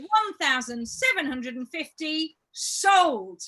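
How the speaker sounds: slow, drawn-out auctioneer call; auctioneer announcement. Acted. Auctioneer announcing final sale.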